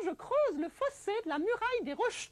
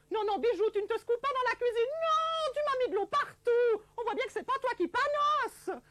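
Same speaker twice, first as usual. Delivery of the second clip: raised, higher scolding of the dog; 5 semitones higher than usual. Acted. Marie-Thérèse scolding her dog Bijou for shaking water, raised scolding. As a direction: tell the wet dog off sharply.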